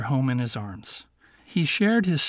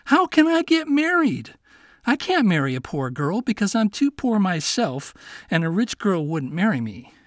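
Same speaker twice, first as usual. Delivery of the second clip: a hint of a protesting young man, higher; lightly voiced poor young man objecting; 5 semitones higher, 3 dB louder than usual. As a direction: Miko doubting he can marry. Miko protests to the fox.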